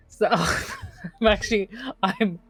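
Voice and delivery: slow words broken by nervous laughs; embarrassed laughter. Real, not acted. Player flustered, laughing.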